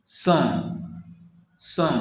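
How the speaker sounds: सॉ with a nasal vowel, no final N; French nasal ON. Shown as a demonstration. Teacher repeating an example of the ON rule, nasal vowel in सॉ. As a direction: say सॉ through the nose, consonant left open. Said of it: "आ जैसा होता है".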